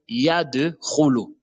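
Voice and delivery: yadkhulu slow, as "yade-khulu", D echoed; bouncing qalqala dal. Shown as a demonstration. Teacher explaining the qalqala letter, dal bounced. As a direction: release the D with a bounce before khulu. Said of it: "Le dal est une lettre col colon".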